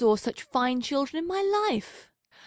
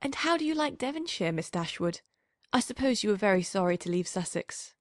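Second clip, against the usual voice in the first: abrupt question; faster than usual. A narrator's reading. Miss Steele to Eleanor asking about Devonshire, abrupt and quick. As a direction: blurt it out abruptly. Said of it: "now said rather abruptly".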